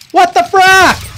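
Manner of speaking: high, slow baffled exclamation; drawn-out disbelief. Real, not acted. Confused in battle.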